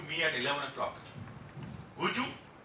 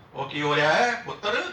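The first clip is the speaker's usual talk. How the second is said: Punjabi; 6 dB louder than usual. Retold or imitated. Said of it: "Punjabi में दो चार गाली देके बोलना पड़ता है".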